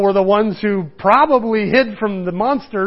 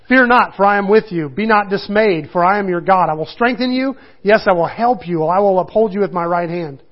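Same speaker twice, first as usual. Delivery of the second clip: a slightly raised, earnest Bible reading; scripture reading. Acted. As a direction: read it out to the congregation. Reads scripture aloud.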